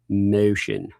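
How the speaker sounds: put-on vowel in "motion"; odd pronunciation. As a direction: say "motion" with a deliberately skewed vowel. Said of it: "never gonna be able to say".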